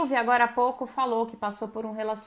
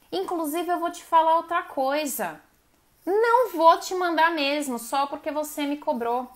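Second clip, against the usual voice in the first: higher and louder, defiant and stubborn; answering a partner who demands too much, defiant; defiant retort; 4 semitones higher, 4 dB louder than usual. Retold or imitated. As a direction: talk back to a demanding partner.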